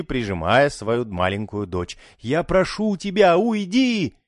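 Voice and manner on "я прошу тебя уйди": much higher pleading cry; desperate cry. A narrator's reading. Daughter begging mother to leave, high pleading cry. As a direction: plead her away. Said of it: "закричала Сьюзи".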